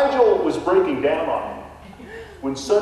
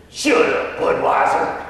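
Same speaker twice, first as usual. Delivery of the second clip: put-on drunk redneck; 5 semitones lower, 4 dB louder, slower than usual. Drunk neighbor answers the ghost.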